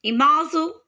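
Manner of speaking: "imazu" modelled in French style; French pronunciation. Shown as a demonstration. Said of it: "in French".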